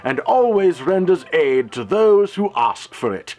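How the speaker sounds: proper English gentleman, unhurried and courteous; lightly voiced refined gentleman; genteel gentleman. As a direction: answer like a well-mannered Victorian gent. In-character Q&A answer.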